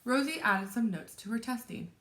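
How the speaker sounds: lively, expressive picture-book read-aloud; story narration. A narrator's reading. Teacher reads a chapter book to children, animated story narration. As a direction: read it to children with dramatic pauses.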